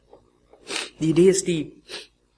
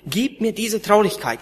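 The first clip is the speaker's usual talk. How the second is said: earnest begging prayer, a bit higher; pleading prayer; 4 semitones higher than usual. Retold or imitated. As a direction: beg God for sorrow, with feeling. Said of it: "betteln und zu schreien".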